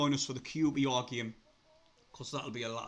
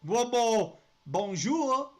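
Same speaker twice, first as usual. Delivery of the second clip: excited greeting; 8 semitones higher, 6 dB louder, much slower than usual. Real, not acted. Hails new French signing.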